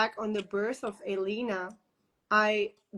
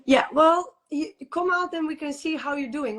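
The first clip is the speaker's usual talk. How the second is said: dismissive reply; 4 semitones higher than usual. Retold or imitated. Midwife brushing off the mother's wish, mock dismissive. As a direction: brush her off like the midwife did.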